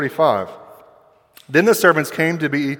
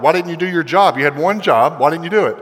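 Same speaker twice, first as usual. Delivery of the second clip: scolding boss; 3 semitones higher, faster than usual. Acted. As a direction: take the guards to task, mildly exasperated. Bosses scold returning guards.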